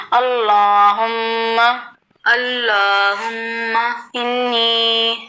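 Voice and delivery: drawn-out reverent recitation; slow Arabic supplication. Real, not acted. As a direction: recite each word slowly and devoutly. (آہستہ عربی دعا)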